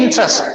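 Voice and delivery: इंटरेस्ट in two syllables, "in-trest"; squeezed-out syllable. Shown as a demonstration. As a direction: swallow the middle of इंटरेस्ट. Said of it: "अब ये देखो इंटरेस्ट बोलते". (इंटरेस्ट को "इन-ट्रेस्ट" बोलकर)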